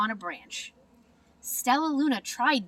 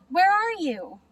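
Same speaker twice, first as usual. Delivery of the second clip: high, scared little bat voice; a lost baby calling for its mother, high and frightened; small squeaky cry; 8 semitones higher, 5 dB louder than usual. Acted. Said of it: "Stellaluna squeaked".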